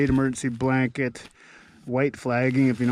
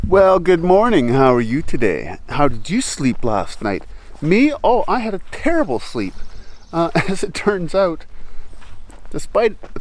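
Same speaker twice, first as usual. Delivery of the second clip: cheery morning greeting; 5 semitones higher, 6 dB louder than usual. Real, not acted.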